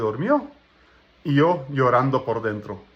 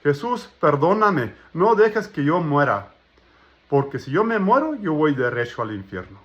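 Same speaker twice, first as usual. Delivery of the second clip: retold plea. Man pleading with Jesus not to let him die, retold plea. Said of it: "le reclamé a Jesucristo".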